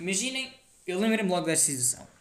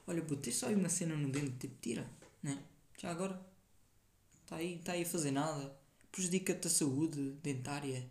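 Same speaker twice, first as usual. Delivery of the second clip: casual normal tone; 3 semitones lower, 8 dB quieter than usual. Shown as a demonstration. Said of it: "não grito nem sussurro".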